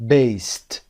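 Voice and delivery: based with a clear t at the end; final t sound. Shown as a demonstration. Teacher repeats based with its t ending. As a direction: close based on a crisp t.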